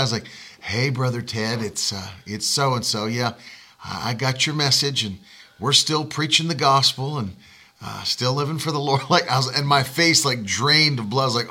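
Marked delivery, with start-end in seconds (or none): 0.6-9.0 low, soft southern voicemail voice; older southern pastor leaving a subdued message; southern accent. Retold or imitated. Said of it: "it's, like, this southern accent".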